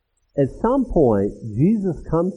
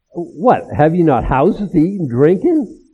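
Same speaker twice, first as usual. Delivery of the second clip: louder, rising rebuke; rebuking; 2 semitones higher, 5 dB louder than usual. Acted. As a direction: demand it of them in disbelief. Preacher rebukes the congregation.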